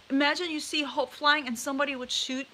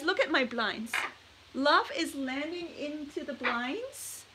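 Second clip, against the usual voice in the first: usual speaking voice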